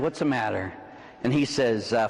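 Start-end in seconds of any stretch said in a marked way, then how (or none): 0.0-0.7 "What's the matter?" eased down low; gentler question. Retold or imitated. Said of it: "And I said".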